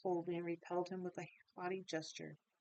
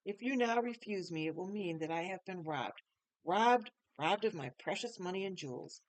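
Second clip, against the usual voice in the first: angry; 4 dB louder than usual. Acted. Googly Goo angrily demands that Gloria marry him. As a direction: insist angrily, louder at the start. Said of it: "he exclaimed angrily".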